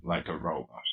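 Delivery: robotic voice effect. Shown as a demonstration. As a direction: voice changer robot. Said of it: "the robot voice".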